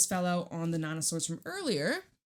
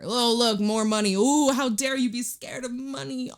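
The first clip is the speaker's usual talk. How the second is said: excited; 5 semitones higher, 6 dB louder than usual. Real, not acted. Excited over money card.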